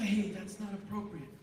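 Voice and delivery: soft, even reminder; calm quiet aside. Shown as a demonstration. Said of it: "Just say".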